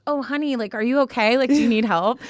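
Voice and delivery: a touch of pitying, patronizing sweetness; imitated condescension. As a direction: imitate a condescending stranger fussing over you. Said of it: "condescending, like, look".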